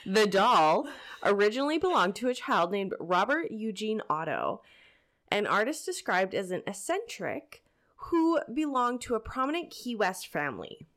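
breathless from the stairs; winded, catching breath between words. Real, not acted. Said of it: "Sorry, I am out of breath from running up the stairs".

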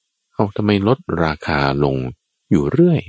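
slow, puzzled ask rising at the end; baffled question. Acted. Queen puzzled that the suitor lowers his price, slow and rising. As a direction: sound truly puzzled by the falling price. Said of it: "มันประหลาดใจมากกว่าเดิม".

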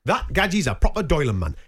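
imitated Newcastle lilt; Geordie accent. Shown as a demonstration. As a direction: put on a North East English accent. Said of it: "it sounds like Geordie".

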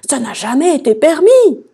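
high, loud tearful whine; whining, snivelling. A narrator's reading. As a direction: whine it like a weepy king. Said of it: "ajouta-t-il en pleurnichant". (pleurnichement sonore)

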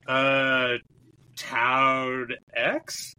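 put-on confused, hesitant French-accented question; imitated French accent. French passenger asking about his stop, confused imitated French accent. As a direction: ask haltingly, mimicking French, rising at the end. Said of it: "no amount of French accent".

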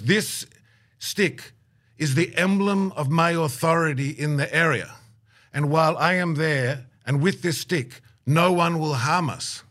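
imitated elder asserting his authority; solemn proclamation. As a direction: declare it with measured pauses, like an official decree.

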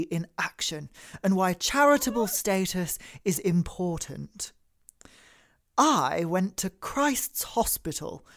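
lightly put-on upper-class reading; posh voice. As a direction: read it like a smug private-school alum. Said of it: "posh voice activating".

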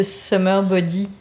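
summer body with French-accented vowels; poor English accent, French-sounding; bad English accent. Real, not acted. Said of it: "mon accent anglais est nul".

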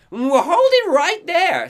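high, slow, far-off bark; slow commanding bark from inside; barking guard. Acted. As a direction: halt him from behind the light. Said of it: "Cynthia Weaver barks from inside".

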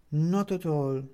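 high, slow, concerned woman's voice; worried neighbour woman. A narrator's reading. Upstairs neighbour finding him on the floor, worried.

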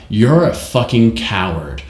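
slow put-on American accent; imitated American accent. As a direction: imitate a British actress faking an American accent. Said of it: "every time I hear that".

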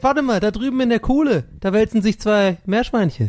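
high excited call across the room; yelling across the room. Pretend. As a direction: shout it over to someone far off. Calling out a sighting. (quer durch den Raum rufen)

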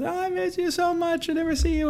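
high gushing mock drunk voice; gushing drunk friend. Drunk acquaintance hugging Josh, high gushing voice. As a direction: gush it like a tipsy friend mid-hug. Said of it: "gives me a huge hug".

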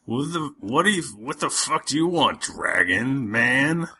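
a hint of a drunk barbarian; drunk bar voice. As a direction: slur it a bit like a drunk. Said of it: "look at you and go".

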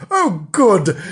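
put-on children's gleeful shout. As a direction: shout it out with delight. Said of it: "shouted the children".

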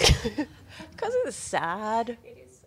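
hushed, slow, near a whisper; real quiet comfort; soft comfort. Real, not acted. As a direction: gently soothe a crying friend. Comforting crying friend.

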